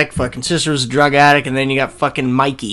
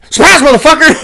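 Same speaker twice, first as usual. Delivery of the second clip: loud high mock attack yell; 10 dB louder, faster than usual. Mimicking Ramirez bursting through a door with a loud yell. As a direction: burst in yelling.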